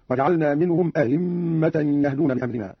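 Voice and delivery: "أئمة" as a-himma, second hamza softened to a glide; eased second hamza. Shown as a demonstration. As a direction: soften the middle of "أئمة", no firm glottal stop. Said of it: "بتسهيل الهمزة الثانية".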